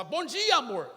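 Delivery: bright-pitched everyday greeting, lifted on dia; plain cheerful retold hello; wife's morning greeting. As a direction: casually greet your spouse, pitch jumping up. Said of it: "e você fala".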